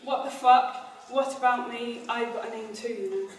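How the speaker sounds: measured, understated mock indignation; mildly angry. Shown as a demonstration. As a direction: demo the line with only a touch of anger. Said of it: "says kind of angrily".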